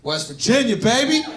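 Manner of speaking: lilting echo rising at the end; mimicking audience member. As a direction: parrot it back with a questioning lift. Echoes the audience member's answer.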